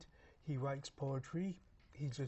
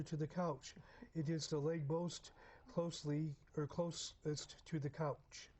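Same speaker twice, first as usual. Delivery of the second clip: deliberate read-aloud, phrase by phrase; story reading; 2 semitones higher than usual. Acted. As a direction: read a short story paragraph to listeners. Reads short story paragraph aloud.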